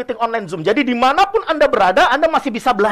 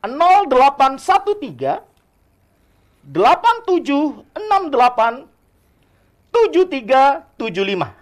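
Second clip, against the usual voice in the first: slowly. Shown as a demonstration. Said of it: "Saya ulangi lagi pelan-pelan".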